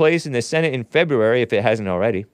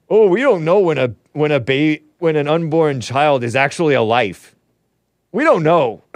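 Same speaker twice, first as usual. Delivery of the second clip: mocking imitation; 3 dB louder than usual. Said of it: "mocking pro-choice argument".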